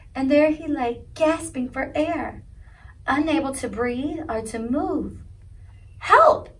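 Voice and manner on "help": feeble groan. A narrator's reading. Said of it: "he groaned feebly".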